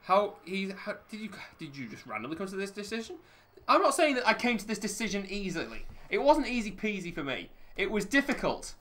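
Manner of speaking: lightly voiced flustered minister; imitating a politician. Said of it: "this saying".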